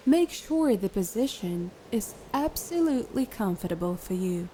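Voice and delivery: calm, unhurried guided meditation voice. Acted. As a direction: guide a listener into relaxation, leaving long pauses.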